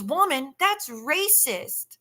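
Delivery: put-on high, very slow drunken drawl; hammed-up slurred indignation; mock drunk woman. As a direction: stretch it out like a tipsy accuser. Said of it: "She goes".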